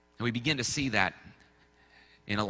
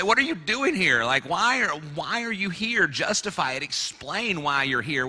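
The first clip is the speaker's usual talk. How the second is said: demanding challenge; 4 semitones higher than usual. Retold or imitated. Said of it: "we say".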